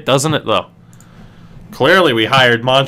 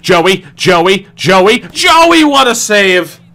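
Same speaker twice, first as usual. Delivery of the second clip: ecstatic cheer; 5 semitones higher, 4 dB louder, much slower than usual. Real, not acted. Goalie makes big save.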